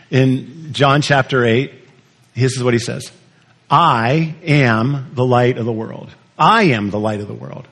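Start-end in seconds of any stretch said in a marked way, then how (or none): 3.7-6.1 slow, with I and am set apart; deliberate pauses after "I" and "am"; stress on I AM. Shown as a demonstration. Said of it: "I'm not sure what he emphasized". 6.4-7.7 "I" stressed, then an even run to the end. Shown as a demonstration. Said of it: "I'm not sure what he emphasized".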